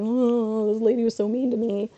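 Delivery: hammed-up tearful whine; mock tearful. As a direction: imitate crying on the phone. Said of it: "in tears at the corporate".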